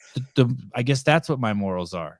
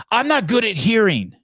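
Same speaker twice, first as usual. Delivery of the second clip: put-on old man voice; 7 semitones higher, slower than usual. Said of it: "He goes".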